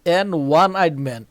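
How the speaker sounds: An one eyed man stretched out slowly; slow model reading. Shown as a demonstration. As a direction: read it word by word. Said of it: "teacher reads example". (খুব ধীরে উদাহরণ পড়া)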